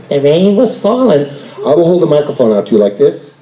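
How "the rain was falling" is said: slow, weighty storyteller read; dramatic narration. Shown as a demonstration. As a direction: announce it like a story cue. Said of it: "but I'm gonna say".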